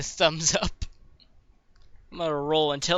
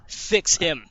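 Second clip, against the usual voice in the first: mildly raised, insistent plea; urgent demand; 5 dB louder than usual. Acted. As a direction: demand help for a fallen friend. Koth demands a repair.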